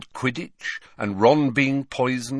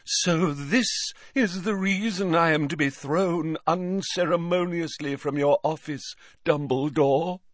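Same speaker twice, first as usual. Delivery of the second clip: high, affronted mystic voice; theatrical seer voice; 8 semitones higher than usual. Acted. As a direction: play the offended fortune teller. Trelawney voiced in audiobook.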